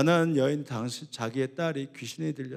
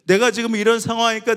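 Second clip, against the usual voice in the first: loud, high, fervent preaching; impassioned sermon, raised voice; 7 semitones higher, 11 dB louder than usual. Acted. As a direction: preach it out to the whole hall. Preaching at full volume.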